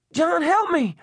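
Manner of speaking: very high, loud plea; Eddie screaming. A narrator's reading. Trapped elderly woman begging man for help, screaming. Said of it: "Eddie screamed".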